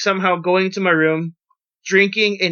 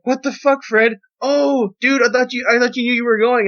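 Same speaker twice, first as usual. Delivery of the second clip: retold exasperation; 5 semitones higher than usual. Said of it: "and I'm like".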